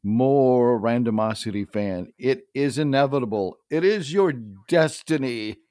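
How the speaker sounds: a low, slow, lightly played Sith lord; slow theatrical villain menace. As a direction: tempt the listeners like a villain. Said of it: "I was actually handed this by Dave".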